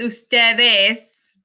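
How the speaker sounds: "ustedes" drawn out slowly to its final S; emphatic correction. Shown as a demonstration. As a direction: stretch "ustedes" so the plural ending is clear. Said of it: "I missed the S".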